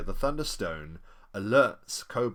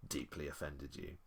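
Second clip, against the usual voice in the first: usual speaking voice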